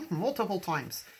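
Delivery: Irish accent. Shown as a demonstration. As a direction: toss it off with a light Irish lilt. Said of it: "I don't know where the accent just came from".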